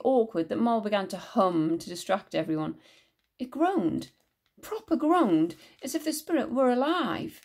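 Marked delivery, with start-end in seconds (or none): 3.4-7.4 high, eager exclamation; exclaiming. A narrator's reading. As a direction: blurt it out, amazed. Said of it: "Siddy exclaimed".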